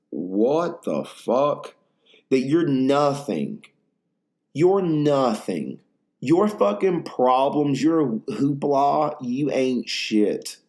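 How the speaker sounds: slow, drawn-out cosmic awe; slow awestruck musing on being nothing; awed dread. Acted. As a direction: let each line hang in slow dread.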